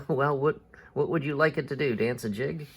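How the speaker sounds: mock question from a grumpy captain; bad-tempered sarcasm. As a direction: throw it back sarcastically. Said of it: "in a very bad mood".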